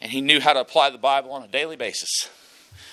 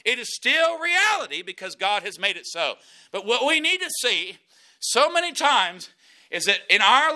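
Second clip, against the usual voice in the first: raised, high preacher's voice driving the point home; full-force preaching; 9 semitones higher than usual. Acted. Pastor preaching hard to his congregation about victory, full force.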